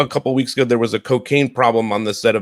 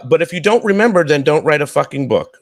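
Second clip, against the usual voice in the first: harsh comment; 5 semitones higher than usual. Retold or imitated. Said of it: "Nicole Drummond says".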